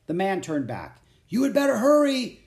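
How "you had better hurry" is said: much higher and louder call; called over shoulder. A narrator's reading. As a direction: call back while walking away. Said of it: "he called over his shoulder".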